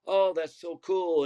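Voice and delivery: friendly small talk. Retold or imitated. Lady reacting to the pitcher's job, friendly and impressed. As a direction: imitate a chatty, impressed new acquaintance. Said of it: "being nice and being friendly".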